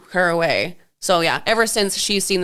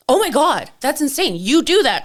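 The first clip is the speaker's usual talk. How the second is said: mom stunned; 7 semitones higher, 3 dB louder than usual. Retold or imitated.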